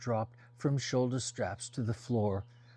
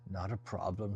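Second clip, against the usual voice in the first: voice like honey; 3 semitones lower, 4 dB quieter than usual. Acted. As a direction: lower and softer, smooth as honey. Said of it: "her voice like honey".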